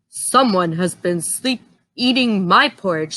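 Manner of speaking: lightly voiced big papa bear; a hint of a grumbling father bear; Papa Bear finding his porridge eaten.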